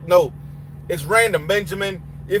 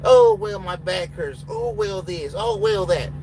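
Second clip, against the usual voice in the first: mock whining excuses; 3 semitones higher, slower than usual. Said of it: "I don't care".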